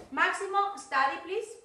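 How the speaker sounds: calling out. Real, not acted. Teacher calls out to a student.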